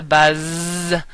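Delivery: "buzz" with a long buzzing Z. Shown as a demonstration. Teacher showing the sound Spanish avoids, buzzing "buzz". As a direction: draw out the Z in "buzz" like a bee. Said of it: "sound like a bumblebee does".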